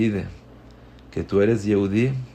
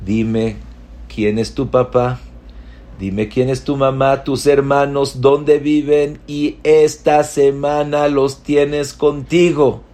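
louder, rising royal decree, slowing at the end; commanding king; 5 semitones higher, 4 dB louder than usual. Acted. King ordering the boy's family brought to him, loud and grand. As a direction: proclaim it generously.

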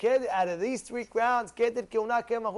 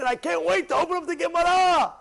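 eager, a bit higher and brighter; excited; 5 semitones higher than usual. Retold or imitated. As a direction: sound like you can't wait to start. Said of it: "A guy gets excited".

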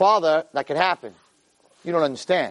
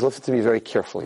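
fast, clipped stern father; a hint of a stern father laying down the law; father's warning, imitated; 4 semitones lower, faster than usual. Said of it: "This is exactly how he said it".

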